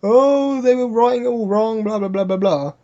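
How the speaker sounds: mock outcry, easing off as it goes; mock screamed complaint. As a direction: imitate someone griping, without really screaming. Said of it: "screams about".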